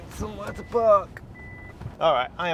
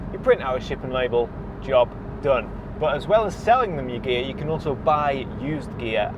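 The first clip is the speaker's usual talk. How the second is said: brisk, upbeat ad-read delivery; sponsor read. Real, not acted. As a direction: pitch the sponsor to viewers like a friendly host. Reads today's sponsor segment.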